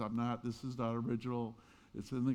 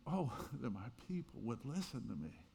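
softer, aching sigh of longing; wistful longing; 6 dB quieter than usual. Acted. Jesus speaking out of a broken heart, wistful and soft. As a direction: voice a broken-hearted plea, gently. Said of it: "He said it with the wistful longing".

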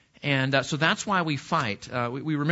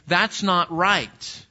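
mock indignation; 2 semitones higher, much slower than usual. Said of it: "the result of saying".

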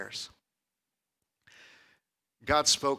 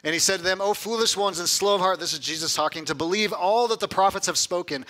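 raised, declaimed Bible reading; emphatic scripture reading; 4 semitones higher than usual. Acted. Preacher reading Jesus' rebuke to the disciples, emphatic. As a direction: read the verses out with force.

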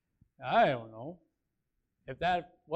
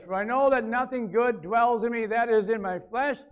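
scripture reading; 3 semitones higher, 3 dB louder than usual. Real, not acted. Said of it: "I read the verse".

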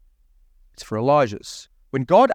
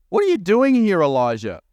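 booming voice of God; 4 semitones higher than usual. Acted. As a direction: call out to Elijah from above. God questions Elijah in scripture.

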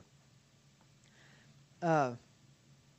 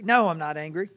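curt denial; 5 dB louder than usual. Acted. Denying anger, pretending calm.

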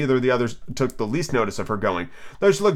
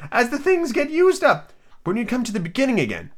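Hatter character voice; 11 semitones higher than usual. Acted. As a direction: draw it out high and theatrically.

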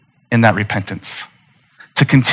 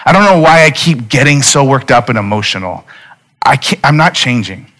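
upset son; 2 semitones higher than usual. Retold or imitated. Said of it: "later upset".

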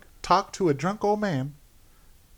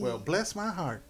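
slow, softer mock Alabama drawl; put-on Alabama accent; 7 dB quieter, slower than usual. Joking along with friends about killers, Alabama accent. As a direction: play up the Alabama vowels, unhurried. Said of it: "probably a horrible Alabama accent".

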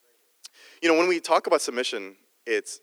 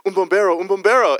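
excited crowd cry, high and loud; raised, high imitation of excited onlookers; louder and louder; 8 semitones higher, 9 dB louder than usual. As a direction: imitate word spreading loudly through a crowd. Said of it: "it would get louder and louder".

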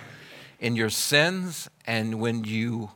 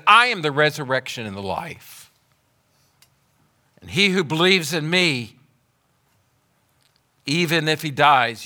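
loud, high proclamation; rising preached declaration; proclaiming; 3 semitones higher, 5 dB louder than usual. Acted. Preacher proclaims Jesus' words.

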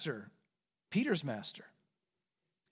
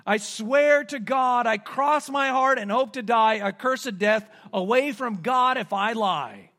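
desperate oath; 2 semitones higher, 5 dB louder than usual. Retold or imitated. Peter swearing desperate oath.

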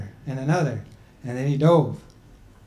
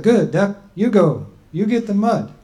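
a higher, slightly raised voice for the people; people's voice; 5 semitones higher, 5 dB louder than usual. Acted. The people telling Grandma Turtle she's too old, in a raised voice.

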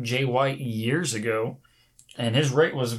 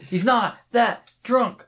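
high, slow mocking echo; mocking imitation; 9 semitones higher, slower than usual. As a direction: parrot him in a silly high voice. Mimicking friend's denial.

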